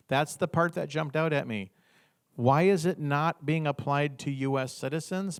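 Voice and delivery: a hint of Trump's cadence; 1 Trump impression. Quoting the president's post in a light Trump manner. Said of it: "See if I can do it in his accent".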